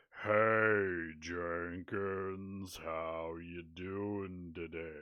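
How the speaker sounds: very slow, loud, deliberately dragged speech. Showing a co-host how to talk for a sped-up recording: talking really slow. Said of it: "talk really slow".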